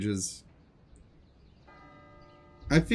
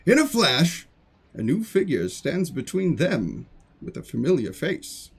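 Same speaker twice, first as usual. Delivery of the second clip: slow, theatrical storyteller narration; dramatic reading; 2 semitones higher than usual. Acted. Streamer indulging viewers in dramatic reading time, theatrical narration. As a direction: set an epic scene with sweeping, drawn-out phrases.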